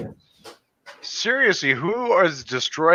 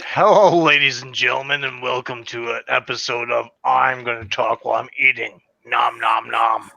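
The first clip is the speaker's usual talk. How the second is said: talking through a mouthful of food; mouth full. Real, not acted. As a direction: mouth full, announcer chatter. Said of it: "I get to talk with my mouth full".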